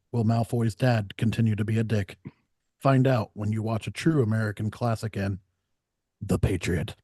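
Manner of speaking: dramatic trailer narrator, lightly done; a hint of epic trailer announcer; movie trailer voice. Movie trailer parody intro.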